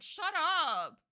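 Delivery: slow, drawn-out exasperation; exasperated. Real, not acted. Resident fed up with car bass, exasperated. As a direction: drag the words out, fed up.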